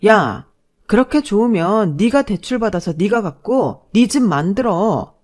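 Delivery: put-on exasperated young woman telling someone off; fed-up fiancée. Fiancée to brazen boyfriend after kicking him, exasperated. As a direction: bite back, fed up.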